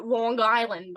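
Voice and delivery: mock Long Island accent, drawn out. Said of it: "everyone expects me to, you know".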